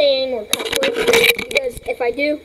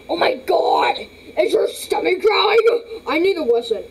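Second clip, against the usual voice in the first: pitched way up, crying out; high squeaky character voice; 5 semitones higher than usual. Acted. Pet owner squealing at the pet, pitched up high. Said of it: "that was the wrong voice".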